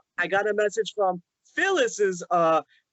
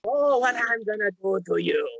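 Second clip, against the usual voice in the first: creepy Peter Lorre voice; 3 semitones higher than usual. Retold or imitated. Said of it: "that voice".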